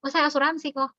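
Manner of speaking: bright, sure reply; confident. Shown as a demonstration. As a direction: say it proudly, no hesitation. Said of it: "Jangan gitu".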